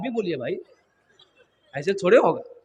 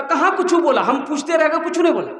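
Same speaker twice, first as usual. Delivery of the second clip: higher, protesting retort; mock indignant complaint; 4 semitones higher than usual. Mother-in-law complains that the groom said nothing, indignant. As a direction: protest in a pitched-up acted voice.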